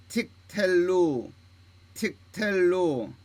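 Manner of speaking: very slow, each word drawn out with a long falling final syllable; repeat-after-me reading. Shown as a demonstration. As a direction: model each word for learners, leaving a pause to echo it. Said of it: "여러분 한번 따라서 읽어보면". (따라 읽도록 아주 천천히 길게 늘여 읽기)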